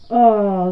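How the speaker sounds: loud acted sigh. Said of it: "zuchtte Bert". (luide, gespeelde zucht)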